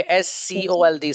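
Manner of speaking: "एस सी ओ एल डी" spelt letter by letter; spelling out. Shown as a demonstration. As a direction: say each letter separately in "एस सी ओ एल डी". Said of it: "डांटने के लिए word इस्तेमाल होता है scold".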